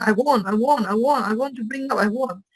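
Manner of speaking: rapid repeated wanting, run together; mock craving. Imitates meditators who keep craving.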